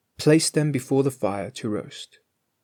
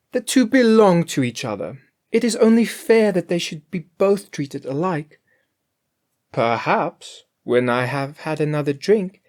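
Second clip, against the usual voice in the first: higher, louder sly cook voice; Grethel's voice; 7 semitones higher, 4 dB louder than usual. A narrator's reading. Greedy cook justifying eating the last fowl, higher and louder. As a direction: talk yourself into eating it.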